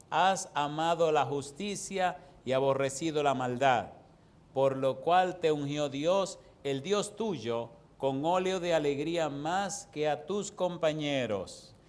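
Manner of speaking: slow, emphatic verse reading; measured pulpit recitation; scripture reading. Acted. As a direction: proclaim the verse slowly, phrase by phrase. Reads a Bible verse aloud.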